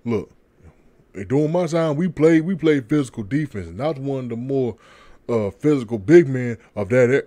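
reading aloud haltingly. Retold or imitated. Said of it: "Kendrick Perkins out there like".

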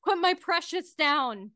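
a touch of desperate pleading; pleading man. Acted. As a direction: beg mildly for a beloved pet. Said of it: "a voice from across the room that says".

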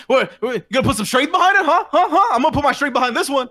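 high, fast, jeering challenge; mocking taunt. Game master as the foe mocking a weak slap, taunting.

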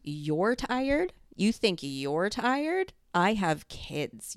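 scoffing, incredulous and rising; mocking complaint. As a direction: throw the question back in disbelief. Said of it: "That's not compassion".

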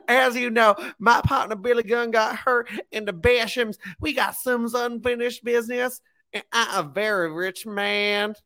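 high-pitched imitation of a wrestler's promo; mock wrestler promo. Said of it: "he was like".

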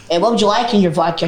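lightly imitated American server; American-accented server's question. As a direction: put on a mild American accent to take the order. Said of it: "see this accent going abroad".

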